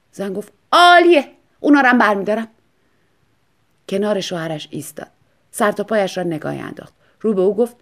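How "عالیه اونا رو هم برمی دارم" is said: high, loud delight. Acted. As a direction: grab it happily. Wife delighted.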